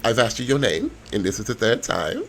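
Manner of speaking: coolly impatient introduction; unfriendly. Acted. Woman asking his name a third time, unfriendly. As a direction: make a formality of being friendly. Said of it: "She don't sound friendly".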